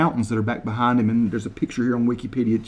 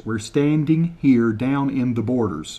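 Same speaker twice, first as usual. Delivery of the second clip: slower, carefully spaced words; slow translation. Shown as a demonstration. Repeating Kevin's line for viewers, slowed down. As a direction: say it again slowly so they get it. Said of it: "translate word for word".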